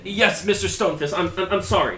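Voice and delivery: high, loud, frantic; frantic apology. Acted. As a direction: stammer out the apology. Boy apologizing in panic.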